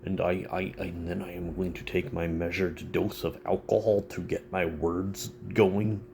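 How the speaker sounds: mock a proper sober self; prim sober self. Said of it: "when I'm sober, it's like".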